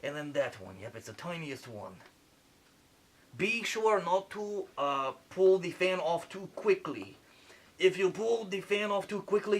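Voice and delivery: lightly put-on French accent playing a surgeon; a French surgeon narrating the operation, a hint of French accent; fake French accent. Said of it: "Sorry for the accent".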